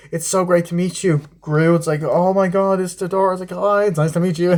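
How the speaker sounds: high, sugary fake pleasantries; hammed-up neighborly greetings; mock gushing neighbors. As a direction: lay on the fake delight. Mocking fake neighbor talk.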